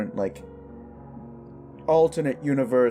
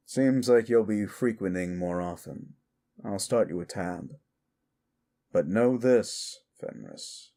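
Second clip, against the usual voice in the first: measured bartender laying out house rules; knowing bartender; 2 semitones lower than usual. Acted. Bartender advises a customer.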